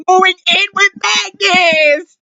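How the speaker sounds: slow, shouted, near-crying joy; excited shout. Real, not acted. Fan finishing the thought about Magnus, excited shout. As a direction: stretch and yell the couple's name. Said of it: "the loudest you will ever hear me".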